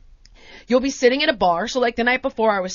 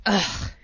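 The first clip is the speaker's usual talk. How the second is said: imitated put-out "ugh"; low, soft grunt of annoyance; disgruntled grunt; 5 semitones lower, 5 dB quieter than usual. Bakery worker asked to heat a scone, grudging grunt. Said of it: "Like this".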